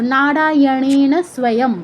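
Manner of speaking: measured recitation of "নারায়ণেন স্বয়ং", unbroken; in one breath. Shown as a demonstration. Teacher shows the remaining seven syllables, in one breath. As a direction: run the seven syllables together as one chanted unit. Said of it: "এই অংশটা আবার একশ্বাসে উচ্চারণ করতে হবে".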